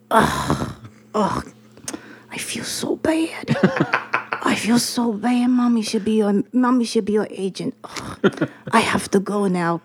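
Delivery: mom's sighing, mock-sorrowful Chinese accent; mock sad mom. Mom on the phone to her daughter, mock sad and sighing. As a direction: sigh like a disappointed mom.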